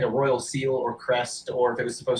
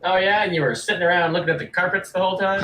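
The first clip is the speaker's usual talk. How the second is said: fast, higher sarcastic jab; scoffing orc; 7 semitones higher, 5 dB louder, faster than usual. Acted. Orc merchant doubting the carpet expert, quick mocking challenge. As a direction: rattle off the disbelief at them.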